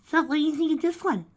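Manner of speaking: high, loud showy question; projected, overbright; loud fake question. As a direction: announce it to the whole room. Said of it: "ask loudly".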